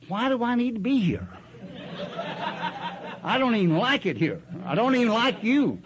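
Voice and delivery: mock-sulky retort through laughs; laughing protest. Retold inner protest, laughing.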